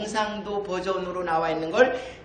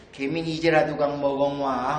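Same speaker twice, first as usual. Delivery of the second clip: much lower, lightly voiced father; father's reply; 7 semitones lower than usual. Husband answering his wife's grumbling, lightly voiced father. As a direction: answer as a father in low Jeju dialect. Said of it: "아버지가 대답하는 말은".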